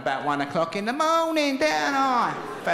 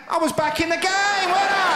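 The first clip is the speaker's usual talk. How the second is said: much higher, louder triumph; cocky victory lap; triumphant; 12 semitones higher, 4 dB louder than usual. Real, not acted. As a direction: crow over the win. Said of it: "triumphant punchline".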